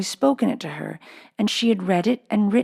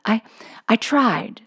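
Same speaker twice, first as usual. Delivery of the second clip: stammering whisper; 5 semitones higher, slower than usual. A narrator's reading. Shy pupil answering scolding headmistress.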